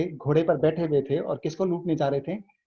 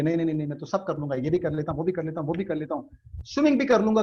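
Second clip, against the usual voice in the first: quick, breezy mock bragging; overconfident boasting; faster than usual. Non-swimmer showing off that he can do anything, overconfident. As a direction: brush off every doubt in a rapid run. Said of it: "वो confidence दिखा रहा है".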